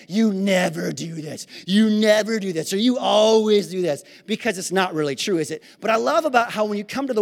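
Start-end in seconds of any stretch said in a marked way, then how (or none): 0.1-4.1 mock complaint to wife. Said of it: "I can't say about Jen".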